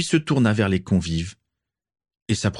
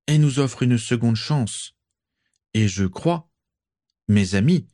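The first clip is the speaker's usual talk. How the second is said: persuasive orator; 4 semitones higher than usual. Acted. Lucius addresses the assembly.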